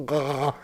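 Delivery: open-mouthed mock chomping noise; imitated gulp. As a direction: mimic dumping food into the mouth. Acts out greedily opening the snack.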